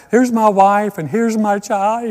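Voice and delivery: a touch of overdone on-air crying; mock crying. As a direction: fake sobbing for the camera. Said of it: "and he's crying".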